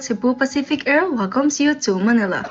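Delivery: smooth, even flight attendant read; landing announcement. Pretend. Flight attendant announcing the landing in Manila, smooth formal read. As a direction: recite it like a cabin PA.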